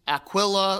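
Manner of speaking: Aquila with a clear KWIL in the middle; alternative pronunciation. Shown as a demonstration. Teacher listing name variants, Aquila said with a clear KWIL. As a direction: say Aquila with a short i in the middle syllable. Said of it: "you'll hear different pronunciations of his name".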